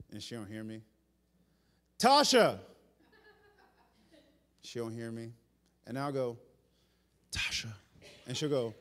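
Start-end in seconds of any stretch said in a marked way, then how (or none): 2.0-2.6 raised-voice call of a name; mock yell. Husband calling wife who doesn't hear him, mock yell. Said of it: "yelling at the top of my lungs". 7.3-7.7 hushed, whispered call; whispered name. Retold or imitated. Husband lowering his voice to his wife, whispering. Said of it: "I lowered my voice and I whispered".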